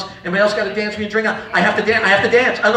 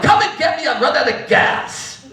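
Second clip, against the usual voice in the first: higher-pitched mom voice, drawn-out ending; mock demanding mother; 4 semitones higher than usual. Mother calls son after running out, mock demanding. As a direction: demand a lift as the comic's mother. Imitates mother calling for help.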